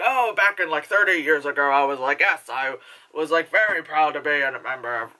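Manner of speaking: lightly attempted Irish accent, badly done. Imitating a proud former IRA member, failed Irish accent. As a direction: have a shaky go at an Irish accent. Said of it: "that's not the accent".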